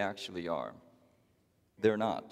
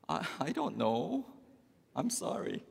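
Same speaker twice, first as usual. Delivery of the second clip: higher, stammering, lost husband; flustered husband; 3 semitones higher, 5 dB quieter than usual. Acted. Husband stammers to wife, higher and helpless. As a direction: stumble through the apology. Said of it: "The husband says".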